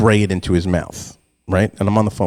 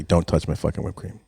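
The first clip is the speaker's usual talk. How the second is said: softer, deadly serious repeat; serious warning; 2 semitones lower, 6 dB quieter than usual. Retold or imitated. Parent repeats the warning to the household, dead serious. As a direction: drop the volume and mean it. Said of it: "Like, seriously".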